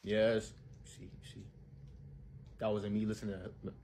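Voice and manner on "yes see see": whisper. Acted. Whispering about snacks.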